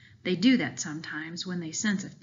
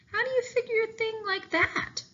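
surprised question. A narrator's reading. Mac asking, pitch leaps high.

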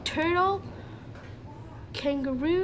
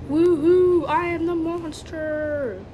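celebrating monster; 4 dB louder than usual. Pretend.

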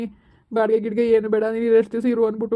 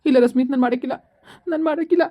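tearful refusal. Acted. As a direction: voice rising into crying. Upset man refuses to phone mother. (ಅಳುತ್ತಾ ನಿರಾಕರಿಸುವ ಧ್ವನಿ)

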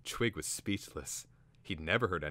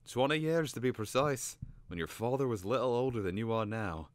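higher-pitched bird voice; storytelling bird; 6 semitones higher, 4 dB louder than usual. A narrator's reading. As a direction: recount it precisely, as the old tale-bearer. Cater bird voiced in narration.

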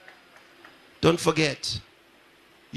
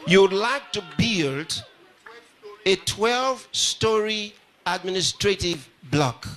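excited shout; slower than usual. Real, not acted. Announcing a donor's pledge.

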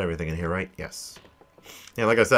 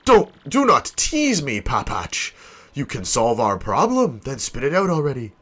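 melodramatic plea with stretched opening; impatient ship owner; 2 semitones higher, slower than usual. Acted. Ship owner presses his sailor for a solution, impatient. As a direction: demand the answer in mild theatrical impatience.

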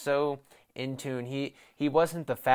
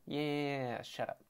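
muttered shut up; 10 dB quieter than usual. Retold or imitated. Snapping back at mocking fans.

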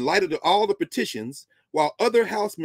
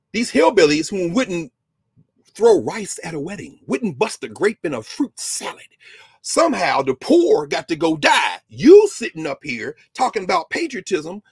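lecturer denouncing hypocrite patriots, loud and scornful; angry rant; 6 dB louder than usual. Real, not acted. Indignant rant against the hillbillies.

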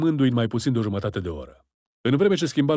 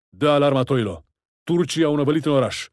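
louder, urgent order; raising the alarm; 3 semitones higher, 3 dB louder than usual. Acted. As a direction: sound the alarm to your men. Commander raising alarm mid-battle. (ordin strigat de alarmă)

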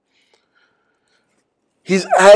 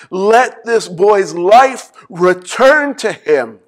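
pleading, drawn-out and louder; slow fervent plea; 3 semitones higher, 5 dB louder, slower than usual. Acted. Preacher voicing Elijah's third prayer, slow loud plea. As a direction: beg God with full heart.

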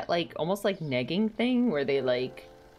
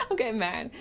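said higher with rising annoyance; getting mad; 7 semitones higher than usual. Real, not acted. Telling the viewers she's getting mad, higher and irritated. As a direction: let real irritation push the pitch up.

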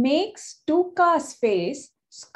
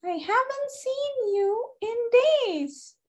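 talking tree; 11 semitones higher than usual. A narrator's reading. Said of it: "Pacha the tree says".

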